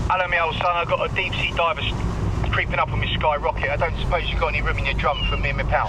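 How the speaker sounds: put-on Cockney patter; lightly hammed Cockney geezer; best Cockney. Shown as a demonstration. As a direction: lay on the Cockney rhyming slang. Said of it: "do it in my best Cockney".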